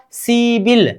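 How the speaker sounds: सीबिल run together, p turned into b; सीबिल as one linked word, see-bil; linked pronunciation. Shown as a demonstration. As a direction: say सीबिल joined, with a b sound. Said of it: "ग्यारह को बोलेंगे".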